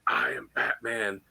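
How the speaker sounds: low, slow gravelly-free growl of the Dark Knight; Batman voice. Retold or imitated. Actor doing the Batman line for a fan, low and slow. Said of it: "Do it again".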